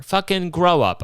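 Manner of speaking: scolding. Acted. Scolding punchline again.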